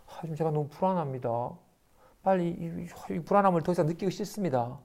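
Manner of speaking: hushed, anxious confession; trembling whisper. Retold or imitated. A disciple confessing anxiety to his master, hushed and trembling. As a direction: whisper the fear to the teacher. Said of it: "여겨 떨었어요".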